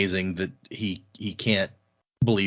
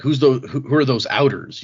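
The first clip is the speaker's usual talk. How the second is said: put-on mumbly street accent, a bit louder; picked-up slum accent; 4 dB louder than usual. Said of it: "using that accent he just picked up".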